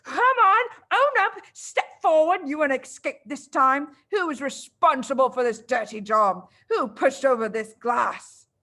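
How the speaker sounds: loud, furious demands to the class; loud and furious, easing toward the end; angry roar. Acted. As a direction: bark the questions like a tyrant. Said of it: "she roared".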